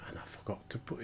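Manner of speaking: soft unvoiced whisper. Real, not acted. Owning up to the viewers in a whisper. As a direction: breathe it as a confession.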